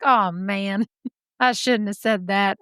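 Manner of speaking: a hint of a Southern accent, laughing it off. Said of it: "I know they're not Southern".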